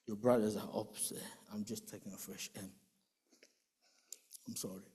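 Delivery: hushed apology outside the hospital ward; sad whisper. Retold or imitated. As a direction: whisper it at a sickbed's door. Sister at hospital entrance.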